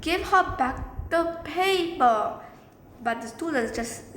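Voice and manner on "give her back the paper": higher, slow, emphatic order; a touch of acted anger; mild mock angry yell. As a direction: scold slowly, as a retold yell. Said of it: "He yelled back angrily".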